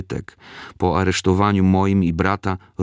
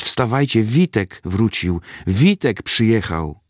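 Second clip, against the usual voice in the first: retold joyful shout; 3 semitones higher than usual. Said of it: "jak zaczął krzyczeć".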